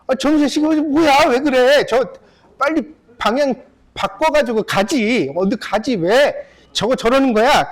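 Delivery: a hammed-up scolding of a stranger's boat; acted anger. Zhuangzi yelling at the boat that won't turn, mock angry.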